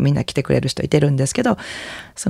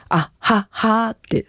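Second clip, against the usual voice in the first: vocal warm-up demo; 7 semitones higher, much slower than usual. Shown as a demonstration. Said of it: "皆さんもぜひ一緒に".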